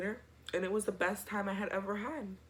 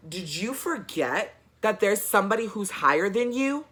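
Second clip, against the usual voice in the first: indignant mom; 3 semitones higher, 7 dB louder than usual. Retold or imitated. Mom challenging principal.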